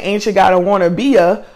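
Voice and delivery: quick, playful Southern country accent. Shown as a demonstration. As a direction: show off the country accent in a rush. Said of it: "I have a really country accent".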